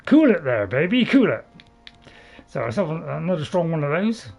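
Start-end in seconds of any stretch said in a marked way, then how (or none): 0.0-1.4 loud. Real, not acted. Fending off an enemy in combat.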